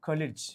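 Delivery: "കൊലിജ്" softly, with a short -lij ending; phonetic pronunciation. Shown as a demonstration. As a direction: say "കൊലിജ്" with both vowels short. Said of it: "എന്ന് എഴുതുന്നത് ഇങ്ങനെ".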